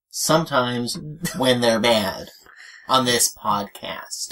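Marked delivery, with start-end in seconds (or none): 2.9-4.3 slow, nerdy host voice; nerd voice. Acted. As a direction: speak like an earnest comic nerd. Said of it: "my nerd voice is my regular voice".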